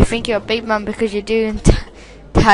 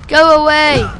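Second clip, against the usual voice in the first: a sharp panicked go away; loud yell; 3 semitones higher, 6 dB louder than usual. Real, not acted. Player yelling at game enemy, loud panicked shout. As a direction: shout it to drive him off.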